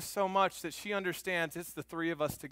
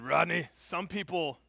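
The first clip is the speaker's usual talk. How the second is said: gruff voice. Retold or imitated. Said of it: "in this gruff voice".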